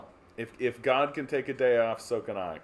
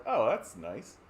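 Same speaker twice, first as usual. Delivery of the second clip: lightly pleased, rising sing-song; a hint of cheerful content citizen; mock pleased. Canadians pleased at a holiday, mild sing-song. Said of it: "everybody in Canada gets to go like".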